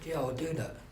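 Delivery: mildly reluctant agreement. Retold or imitated. Newcomer accepting a curry invitation, reluctantly. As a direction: agree half-heartedly, without much will. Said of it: "like, reluctantly".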